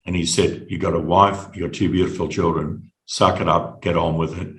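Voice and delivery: retold consoling words, low and unhurried. Mentor consoling him, arm around shoulder.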